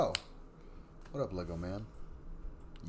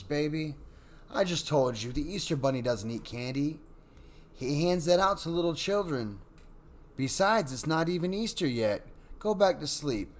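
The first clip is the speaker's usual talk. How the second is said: high, louder, kindly motherly voice; kindest voice; 6 semitones higher, 4 dB louder than usual. A narrator's reading. Mother soothing her daughter at night, high kind voice. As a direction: coax the child back to bed, kindly. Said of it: "she said in her kindest voice".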